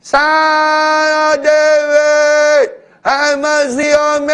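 very high, loud, slow drawn-out cry; desperate shout. Acted. Beggar shouting again over the scolding crowd, desperate wail. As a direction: hold every word out as a wailing plea. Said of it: "He shouted".

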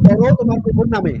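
high-pitched quoted command; high mock command. Debater quotes the angel mockingly, high and pointed. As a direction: fling it out high like a parody.

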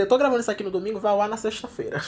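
hurried self-correction of "eu tô gravando isso aqui no domingo"; fast correction. Real, not acted. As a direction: blurt "eu tô gravando isso aqui no domingo" out quickly to fix the slip. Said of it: "quer dizer".

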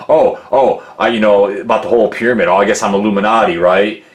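quick, mildly mocking imitation. Imitating rappers who mock in interviews, mildly mocking. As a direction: rattle it off as a light mock retort. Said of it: "they just mock. They will mock".

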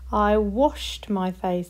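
slowed down, each word clear; slow modelled past tense. Shown as a demonstration. Teacher modelling washed slowly for the class. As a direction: say it slowly so they hear washed. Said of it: "That one works".

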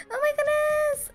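high, tearful joyful squeal; almost crying from happiness; real tears-of-joy exclamation; happy cry. Real, not acted.

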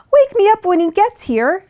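high-pitched cat voice; sleepy cat asking to be left alone; sleepy cat murmur. A narrator's reading. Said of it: "she murmured".

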